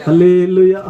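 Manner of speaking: a loud, high call of hallelujah; rousing church shout. Real, not acted. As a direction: lift the crowd with a shout. Leads the congregation in a call.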